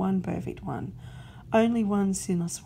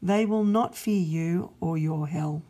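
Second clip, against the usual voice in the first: louder, firm promise of love; God's resolute voice; 5 dB louder than usual. Acted. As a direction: declare it proudly. God speaks of love.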